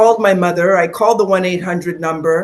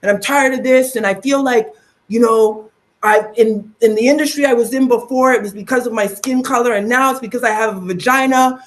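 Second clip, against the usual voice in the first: higher, raised retelling of fury; retold anger; 5 semitones higher than usual. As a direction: vent it as you tell it. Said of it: "I said to her".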